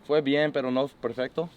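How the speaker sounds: halting Spanish, searching for words; speaking Spanish on request. Real, not acted. Quarterback sums up practice in Spanish for reporters, halting. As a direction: answer in careful, slightly unsure Spanish. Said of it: "Can you sum up today's practice in Spanish".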